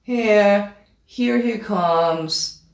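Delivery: mildly lacklustre, slowed announcement; underwhelming announcement. Shown as a demonstration. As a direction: announce a VIP with too little fanfare. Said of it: "You would never announce someone like this".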